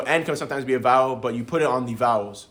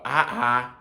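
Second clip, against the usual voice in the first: puzzled "Ah, ah", near usual pitch; what's-going-on. Shown as a demonstration. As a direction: demonstrate "Ah, ah" as asking what's happening. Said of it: "What's going on?".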